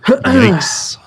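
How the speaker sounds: high shocked squeal; squealed yikes. Pretend. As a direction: shriek it in mock alarm. Reacting to brown tap water.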